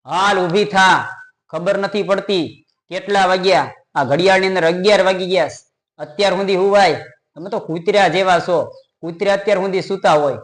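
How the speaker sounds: a hint of a scolding bark to wake her; mock loud scolding. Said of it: "જગાડતો હતો મોટા અવાજે".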